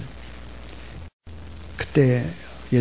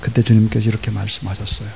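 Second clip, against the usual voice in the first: ordinary talk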